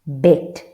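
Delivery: "Bet" said loud and clear, short e; model word. Shown as a demonstration. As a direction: demonstrate "Bet" for learners. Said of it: "Let's see what we can find".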